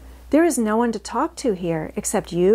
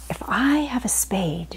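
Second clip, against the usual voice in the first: whispered; 3 semitones higher than usual. Acted. Mary alone by the fire, whispering her hope. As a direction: whisper it like a secret wish. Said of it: "she whispered".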